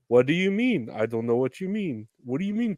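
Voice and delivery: put-on puzzled innocence; feigned ignorance. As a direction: play dumb about an open secret. Locals feigning ignorance of secret.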